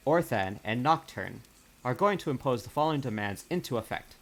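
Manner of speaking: reading out an official missive; stately read-aloud of a diplomatic letter; formal letter read aloud. Acted. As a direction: deliver a formal written decree in measured phrases. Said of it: "I will read it out".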